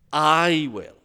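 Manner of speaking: loud, weighty "I" in "I will"; emphatic. Acted. Preacher drives God's promise home, emphatic. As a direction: land hard on a lengthened "I", then drop on "will". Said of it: "this phrase is emphatic".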